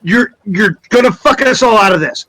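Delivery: fed-up warning, held short of yelling; suppressed irritation, accent dropped. Acted. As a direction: warn him without raising a fuss. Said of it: "trying to keep his voice down".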